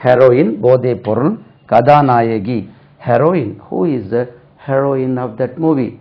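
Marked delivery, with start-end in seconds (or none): 3.1-5.9 heroine said "HEH-ro-in", short e; slow question, heroine starting with "heh"; correct heroine. Shown as a demonstration. Teacher repeats the film question as a model, short-e pronunciation. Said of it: "ரெண்டுமே ஒரே உச்சரிப்பு தான்".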